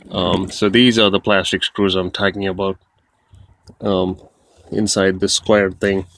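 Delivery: talking while lying on back; strained voice from under the car. Real, not acted. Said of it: "Now I'm under the car".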